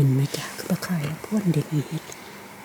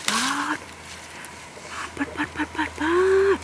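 much higher, softer, repeated wows; amazed exclamations; 9 semitones higher, 6 dB quieter than usual. Real, not acted. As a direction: squeal of amazement under the breath.

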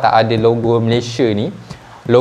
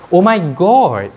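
excited gasp; 6 semitones higher, 5 dB louder, slower than usual. Real, not acted. Overwhelmed unboxing.

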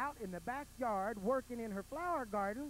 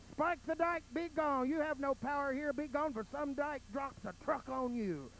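commanding wizard; 3 semitones higher than usual. Acted. Wizard banishes villain.

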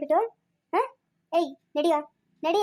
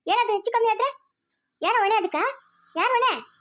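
higher, sharp rebuke; angry scolding; 5 semitones higher than usual. Acted. Mother berates her son for leaving Lakshmi alone, higher and angry. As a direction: demand an answer, furious.

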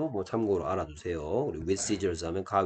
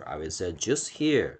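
very slow, word by word; 천천히 또박또박 읽어 주기; slow model reading; 2 semitones lower, much slower than usual. Shown as a demonstration. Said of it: "teacher models English sentence". (아주 느린 시범 읽기)

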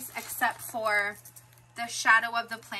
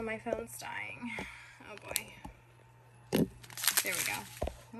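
quick unvoiced whisper; hushed worried aside; 9 dB quieter than usual. Real, not acted. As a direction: breathe it out under your breath. Worried aside while phone battery dies.

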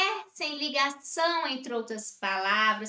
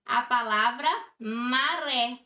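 maré said clearly with weight on ré; teacher showing the stressed ré in maré; stressed example. Shown as a demonstration. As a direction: land on the ré of maré. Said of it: "Nós temos aqui o ré".

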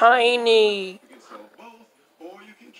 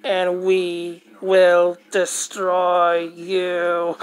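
alien voice; slower than usual. Acted. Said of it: "This guy does a better alien voice than".

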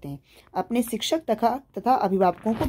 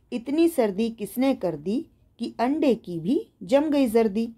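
put-on slow, measured children's verse; rhythmic poem recitation. Shown as a demonstration. Teacher reading a winter poem to young pupils, slow rhythmic recitation. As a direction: recite the poem slowly, keeping the beat. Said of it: "लय में गाते हुए हाव भाव के साथ पढ़िए".

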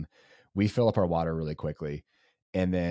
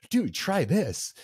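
much higher, slow, drawn-out coaxing; insistent eager offer; 12 semitones higher, much slower than usual. Retold or imitated. Friend back with bacon coaxing sick runner, high drawn-out offer. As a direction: dangle it temptingly, stretching every word. Friend returns with more food.

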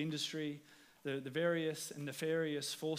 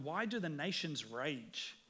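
plain; 4 dB quieter, slower than usual. Shown as a demonstration. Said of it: "It says in verse one".

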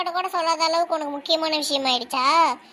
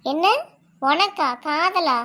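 amazed disbelief; much slower than usual. Acted. Friend confesses she is in love.

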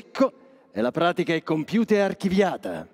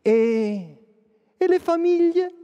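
mock shocked question; 4 dB louder, slower than usual. Voicing the audience's shocked question.

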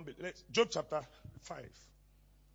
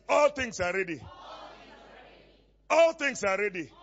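emphatic declaration, hard attack on ALL; say it like you mean it; 4 semitones higher, 10 dB louder than usual. Shown as a demonstration. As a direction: lead the congregation in declaring it with conviction. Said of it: "We mean it"? ... Do like this".

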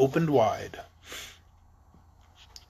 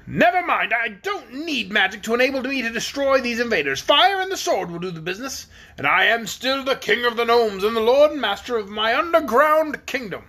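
attempted swagger; 6 semitones higher than usual. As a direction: puff yourself up, king bluffing before the dragon. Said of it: "with an attempt to swagger".

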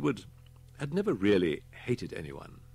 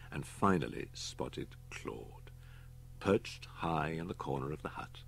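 whispered; 6 dB quieter than usual. A narrator's reading. Suspense in horror tale.

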